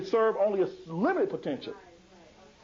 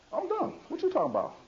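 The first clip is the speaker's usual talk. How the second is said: put-on defeated boy; 2 semitones higher, faster than usual. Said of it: "Michael's going around talking about".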